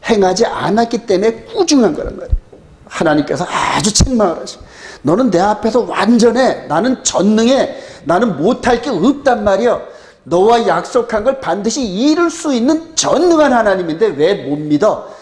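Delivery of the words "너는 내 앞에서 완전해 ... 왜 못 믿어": higher, emphatic mock scolding; retold rebuke. God rebuking Abraham for not believing, a higher-pitched retold rebuke. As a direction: act out a reproach, pitch raised. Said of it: "이런 식으로 책망을 했단 말이에요".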